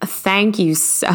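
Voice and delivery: slow attempt at a Southern drawl; slightly unsure Southern twang; Southern accent. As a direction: ease into a put-on Southern accent. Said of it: "Maybe a Southern accent this time".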